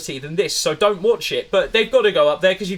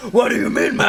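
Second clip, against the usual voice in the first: higher mock shout of a star protesting; mock Vin protest; 5 semitones higher, 4 dB louder than usual. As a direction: yell it in a hammed-up indignant voice. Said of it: "he's going".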